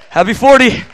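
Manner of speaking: happy forty called out loud; birthday shout. Real, not acted. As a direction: shout it across the room to your brother. Calls birthday wish to brother.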